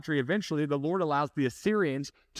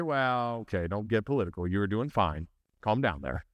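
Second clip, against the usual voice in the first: much lower, quick mock rebuke; mock scolding; 9 semitones lower than usual. Churchgoer reining in the preacher, low mock scold. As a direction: play a listener telling the preacher to cool it. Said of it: "He said".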